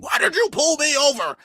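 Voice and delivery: lightly voiced outraged driver; mock indignant. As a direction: imitate an entitled driver. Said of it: "white folks be yelling at the police".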